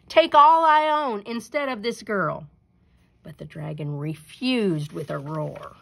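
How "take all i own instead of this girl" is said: high, loud pleading shout; shouting into the wind. A narrator's reading. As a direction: call out over the storm. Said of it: "the rich man shouted into the wind".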